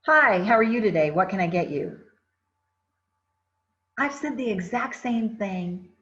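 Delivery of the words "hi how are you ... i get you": curt greeting with arms crossed; cold, closed-off. Shown as a demonstration. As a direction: say it like you'd rather not serve them. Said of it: "cross my arms".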